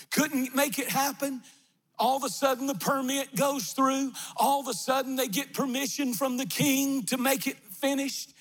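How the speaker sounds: high, insistent sermon delivery; rousing preaching. Acted. Preacher telling how the permit goes through, high rousing preaching. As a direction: build excitement as the breakthrough unfolds.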